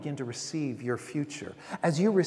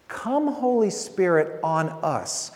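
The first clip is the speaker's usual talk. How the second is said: slow prayerful call; 3 dB louder, slower than usual. Shown as a demonstration. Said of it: "what we're really saying is to come".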